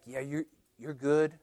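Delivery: softly imitated flattering thought; insinuating inner voice. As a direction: murmur the praise as an inner tempter. Voicing the inner gnawing flatterer.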